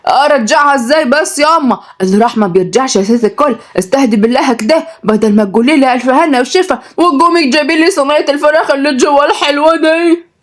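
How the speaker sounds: put-on high, pleading kid voice; scared boy. A narrator's reading. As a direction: plead with mum, mildly frightened. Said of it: "بص لها عبد المجيد برعب". (ولد مرعوب بيستعطف أمه)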